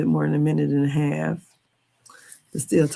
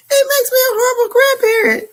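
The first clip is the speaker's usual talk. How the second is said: high, loud laugh-crying through the line; laughing through words; 9 dB louder than usual. Real, not acted. Admitting to viewers she's a bad grandparent, laughing. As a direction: say it while laughing helplessly. Laughing at her own remark.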